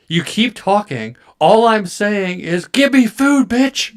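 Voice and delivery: high, loud, slow bossy cat; cat demanding its dinner, high and loud; cat's inner voice. Pretend. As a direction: demand food as a haughty cat. Voicing the cat's inner thoughts.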